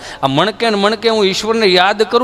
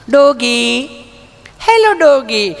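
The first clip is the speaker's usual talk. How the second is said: cooing at a dog; 3 semitones higher, much slower than usual. Retold or imitated. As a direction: coax the dog in a mock-sweet voice. City lady cooing at a dog. (કૂતરાને લાડથી બોલાવતી ભાભી)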